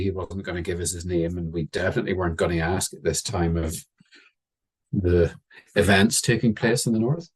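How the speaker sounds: ordinary delivery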